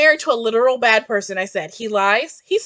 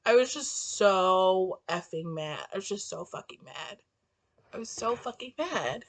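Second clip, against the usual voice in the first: much softer, low hushed rant; 10 semitones lower, 13 dB quieter than usual. Real, not acted. Hushing her rant as her sister comes home. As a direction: keep it down, someone's home.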